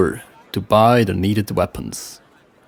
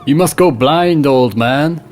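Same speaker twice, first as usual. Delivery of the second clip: mocking Viking voice; 4 semitones higher, 4 dB louder than usual. Rolf mocks the harbor master.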